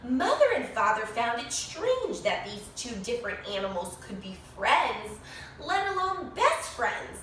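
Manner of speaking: lively storybook narration with bright rises; animated read-aloud for a class; reading to children. A narrator's reading. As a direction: read it like story time for little kids. Reads picture book to children.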